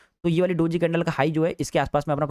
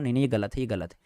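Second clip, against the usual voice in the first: calm correction; 3 semitones lower than usual. Retold or imitated. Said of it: "मैं उनको बता देता हूँ".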